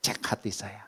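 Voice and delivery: hushed, breathy prayer to God; slow whispered confession before God. Retold or imitated. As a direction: pray it under your breath, intimate. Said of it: "Saya bilang".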